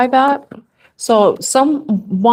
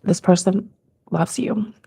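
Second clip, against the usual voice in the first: crying; much slower than usual. Real, not acted. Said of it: "I don't like crying on camera".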